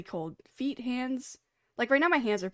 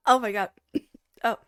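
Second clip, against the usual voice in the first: coughing up water; 5 dB louder, faster than usual. Real, not acted. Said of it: "I went down the wrong pipe".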